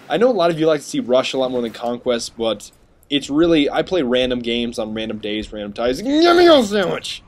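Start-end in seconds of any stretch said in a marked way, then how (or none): 6.0-7.2 mock squeaky enemy voice. Mocking the attic monster he kills, squeaky voice.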